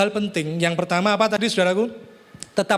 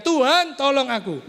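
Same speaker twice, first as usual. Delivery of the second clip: raised, higher-pitched plea for rescue; mock drowning cry; 6 semitones higher than usual. Preacher voices someone drowning calling to God, crying out. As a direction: call out for help as if going under.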